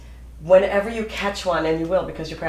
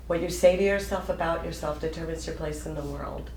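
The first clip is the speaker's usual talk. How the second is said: ordinary talk, nothing marked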